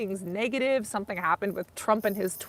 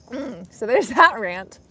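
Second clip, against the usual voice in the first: laughing; 9 dB louder, slower than usual. Real, not acted. Laughing off her rant.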